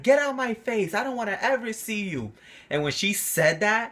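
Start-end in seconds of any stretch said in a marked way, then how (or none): 0.0-2.3 higher, louder mock of an angry mother; mother's angry dismissal. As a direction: throw him out, raised and sharp. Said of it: "And she was like".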